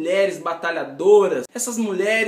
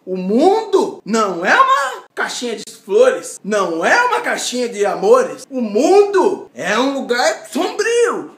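dramatic warning; 2 semitones higher, 6 dB louder than usual. Acted. Dramatic warning about the world.

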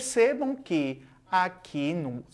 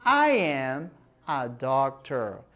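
model sentence; 5 semitones lower than usual. Shown as a demonstration. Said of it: "Repitam comigo".

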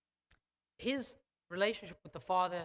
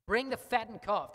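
louder, ringing call to bring it; proud father's bold command; generous command; 4 semitones higher, 6 dB louder than usual. Retold or imitated. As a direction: call out the order like a lavish host. Father's real command, contrasted.

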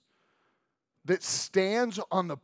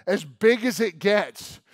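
slow and louder, every word weighted; slow emphatic; 4 semitones higher, 8 dB louder than usual. Acted. Preacher stressing how big God is, slow and louder. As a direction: lean on each word.

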